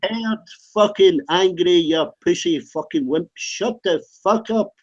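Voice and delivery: heated, contemptuous outburst; angry. Real, not acted. Warning a heckler he's never heard real anger, angry. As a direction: lash out at an accuser. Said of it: "You're way too angry".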